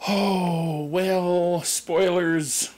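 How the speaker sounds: put-on very old man. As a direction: play a frail old man. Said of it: "do an old man voice that I quite like".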